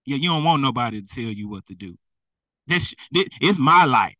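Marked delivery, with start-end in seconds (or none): 2.7-4.1 loud, defiant retort; a believer loudly rejecting correction. Retold or imitated. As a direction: throw it back loudly like a stubborn believer. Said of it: "Have you been talking like that".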